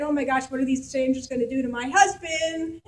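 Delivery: panicked, crying-out worry; a wife afraid for her husband; Sarah fearing for her husband, frightened. Retold or imitated. Sarah fearing strangers' intent.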